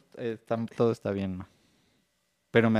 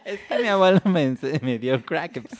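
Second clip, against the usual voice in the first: put-on six-year-old boy; 2 semitones higher, 9 dB louder than usual. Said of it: "¿estás seguro que tienes seis años".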